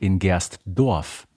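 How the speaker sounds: slow, secretive whisper. Acted. Co-host reveals the trivia answer in a slow whisper.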